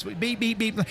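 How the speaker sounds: short repeated electronic-style beeps; imitated buzzer beeps. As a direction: mimic the bus warning buzzer. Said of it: "obviously a buzzing sound on this".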